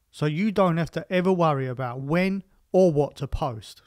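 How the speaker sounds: measured, emphatic podcast ad voice; sponsor read. Acted. Podcast host telling listeners about the sponsor, promotional. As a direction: pitch the sponsor's services point by point.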